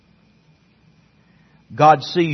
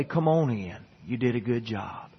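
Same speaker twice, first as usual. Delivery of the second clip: imitated folksy God; 4 semitones lower, 10 dB quieter than usual. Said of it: "old God's gonna say".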